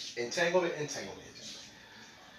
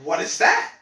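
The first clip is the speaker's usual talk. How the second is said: surprised question; 4 dB louder than usual. Retold or imitated. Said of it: "And he's like".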